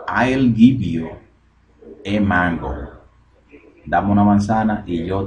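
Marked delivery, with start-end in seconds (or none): 0.1-2.7 slow model line. Shown as a demonstration. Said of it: "slow model line".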